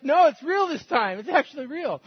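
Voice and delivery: high, emphatic re-enacted insistence; insistent retold reassurance. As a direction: plead that this time you mean it. Retold insisting to the doubting girl.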